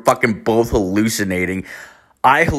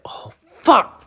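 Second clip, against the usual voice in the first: oh fuck; 13 semitones higher than usual. Retold or imitated. Realizing girlfriend hallucinated.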